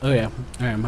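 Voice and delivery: chewing while talking; talking through a mouthful; mouth full. Real, not acted. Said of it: "I'm chewing right now".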